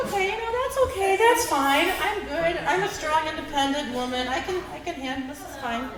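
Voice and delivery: high, strained self-soothing pep talk; forced calm. Retold or imitated. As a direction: talk yourself down through clenched patience. Forced self-calming after hanger falls.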